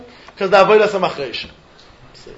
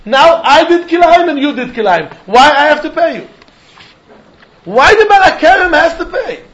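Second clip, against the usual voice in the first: indignant protest; 5 semitones higher than usual. Acted. Rabbi voices the vineyard owner protesting.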